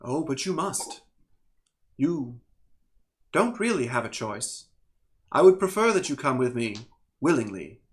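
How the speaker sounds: measured elemental being with long pauses; lightly voiced calm entity. Elemental double urges Plonk to come along, calm and deliberate. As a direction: lightly play a calm, insistent otherworldly being.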